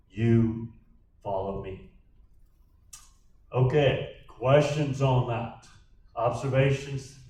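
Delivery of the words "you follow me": "you" set apart by a pause, then a lower "follow me"; emphatic YOU. Acted. Jesus telling Peter to follow him, emphatic "you". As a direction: stress "you", pause, let "follow me" drop. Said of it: "That is the emphatic".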